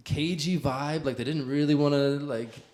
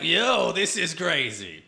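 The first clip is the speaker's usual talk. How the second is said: slower, higher, mock stunned; a hint of shocked disbelief, higher; mock amazed; 6 semitones higher, 3 dB louder, slower than usual. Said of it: "I was like".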